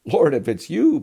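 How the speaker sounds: high, loud call over the wind; shouting back. Acted. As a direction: yell it across the water to Jesus. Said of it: "Peter shouted back".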